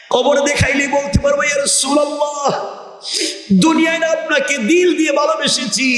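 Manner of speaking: high, sustained devotional call; melodic preaching. Acted. Believer in the grave calls to the Prophet, high melodic preaching. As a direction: chant it out high, holding the phrase endings.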